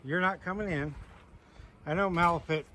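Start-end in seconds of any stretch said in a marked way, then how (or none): 0.0-0.9 firm mock warning; imitating what he tells the goat, a bit raised; playful firm no; I'll go. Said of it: "I'll go".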